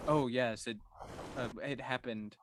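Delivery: hesitant deadpan, trailing off softly; dry delivery. Shown as a demonstration. Player showing how the druid explains it, dry delivery. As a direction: understate it completely, without expression. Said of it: "His delivery is so dry".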